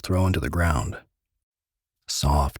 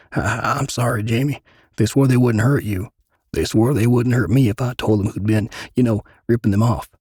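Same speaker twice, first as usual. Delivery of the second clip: high, louder, tearful pleading; crying plea; 6 semitones higher, 4 dB louder than usual. Acted. Frankie confessing to Jamie, tearful high plea. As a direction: plead through tears.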